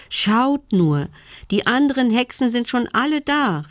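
high, eager cry; excited calling out. A narrator's reading. Little witch spots the other witches at the fire, calling excitedly. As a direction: call out excitedly, pitch climbing. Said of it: "rief sie aufgeregt".

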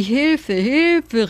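storyteller's restrained, high cry for help; hoarse cry for help. A narrator's reading. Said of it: "eine heisere Stimme, die".

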